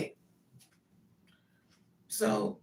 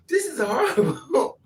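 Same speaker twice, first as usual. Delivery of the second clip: drawn out and high; high comic lament; slow high wail; 9 semitones higher, 6 dB louder than usual. Retold or imitated. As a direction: stretch it like inner despair. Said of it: "You think".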